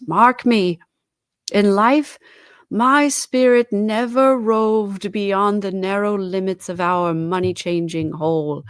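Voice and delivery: loud, stern call; commanding cry. A narrator's reading. Ghost commands Scrooge to mark its words, loud. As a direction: demand he listen.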